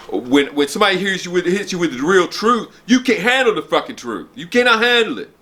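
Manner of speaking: getting riled up, pushing the truth on them. Real, not acted. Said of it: "I get riled up".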